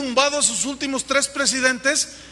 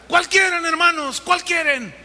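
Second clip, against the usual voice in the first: mocking worship leader; 7 semitones higher, 4 dB louder than usual. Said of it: "el líder de alabanza agarraba su guitarra y decía".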